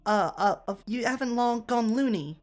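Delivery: put-on British accent. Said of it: "took on her accent".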